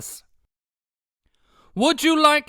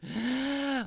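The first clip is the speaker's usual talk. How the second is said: startled gasp; 3 semitones higher, 11 dB quieter than usual. Acted.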